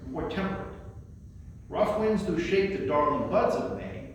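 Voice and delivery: measured, unhurried recitation of a sonnet; poem reading. Acted. Presenter reads Sonnet eighteen to the audience, recited as a poem. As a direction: read each line as verse with a pause after it.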